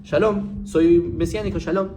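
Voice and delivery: lampoon the fake Hebrew greeting; mocking messianic greeting. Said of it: "sino dicen".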